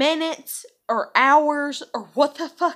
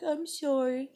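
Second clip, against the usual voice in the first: softer, mimicked sheepish sorry; mock apology; 3 semitones higher, 5 dB quieter, slower than usual. Woman mimicking men caught hinting, mock-apologetic. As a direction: imitate a sheepish apology, softly.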